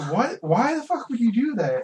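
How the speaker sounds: high, loud mock disbelief; mock outrage. Network execs reacting to the pitch, in mock outrage. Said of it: "And they're just".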